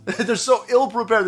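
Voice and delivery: "ill-prepared" said again through a slow chuckle; laughing repeat. Real, not acted. Mocking the troops' setup, laughing as he repeats it. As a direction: laugh it out, shaking your head. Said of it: "They're so ill-prepared for this".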